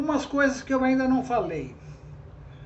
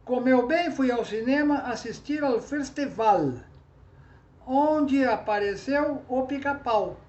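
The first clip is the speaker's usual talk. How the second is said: southern Brazilian pronunciation; 3 semitones higher than usual. Retold or imitated. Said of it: "eles vão falar".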